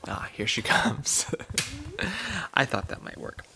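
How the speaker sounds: soft unvoiced aside; whispering. Real, not acted. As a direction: whisper so she won't notice. Quiet aside as toddler approaches.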